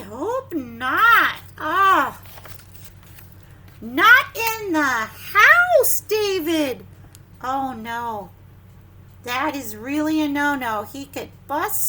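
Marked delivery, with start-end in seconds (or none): 1.6-6.9 loud, high, slow not in the house; slow loud scolding; scolding parent. Acted. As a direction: shout to stop ball play indoors. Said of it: "parent's line from the book".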